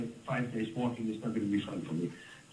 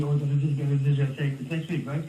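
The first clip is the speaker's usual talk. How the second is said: louder, hurried mock panic about next week; mock panicky fuss; 4 dB louder than usual. Dad mimicking a worked-up person fretting days ahead, mock panicky and louder. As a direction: imitate someone getting worked up over nothing. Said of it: "because they're getting crazy".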